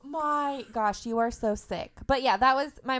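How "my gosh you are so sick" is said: laughing through the words; giggling disbelief, drawn out slowly; laughing in disbelief at her mother's joke. Real, not acted.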